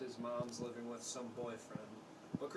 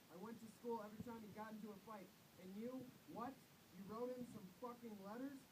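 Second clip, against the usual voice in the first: angry shout; 8 semitones higher, 10 dB quieter than usual. A narrator's reading. Father listing what he did for his son, angry shout. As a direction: pile up every sacrifice, furious. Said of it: "And Father shouted".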